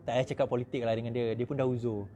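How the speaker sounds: low, soft warning; elderly son's caution. Retold or imitated. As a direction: gently hush him about politics. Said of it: "Anak dia, anak dia lagi tua daripada saya. Cakap". (pesanan perlahan, nada rendah)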